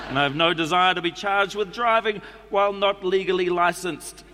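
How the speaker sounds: put-on reading a letter in a New Zealand accent; a relaxed Kiwi accent all through. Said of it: "I'm going to do it in the New Zealand accent".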